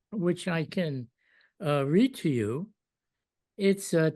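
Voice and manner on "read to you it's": ordinary talk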